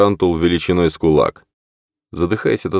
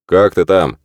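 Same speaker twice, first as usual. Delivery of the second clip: shouting; 3 semitones higher, 6 dB louder than usual. Acted. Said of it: "крикнул Сэм".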